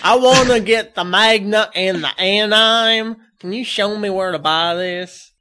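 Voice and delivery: high, loud, laughing clueless fan voice; mock the fan who says Magna, laughing. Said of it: "because I've heard that".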